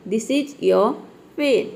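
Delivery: very slow, each word laid out, your with faint r; slow model reading of This is your pen; slow demo sentence. Shown as a demonstration. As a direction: read it out slowly for students. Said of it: "इस तरह से".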